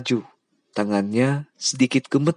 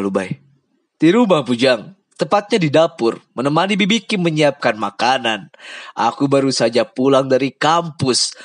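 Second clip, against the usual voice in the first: higher, louder, chatty friend; breezy, unaware of bad news; Lubai's cheerful voice; 4 semitones higher, 4 dB louder than usual. Lubai chatting happily with boss from his kitchen.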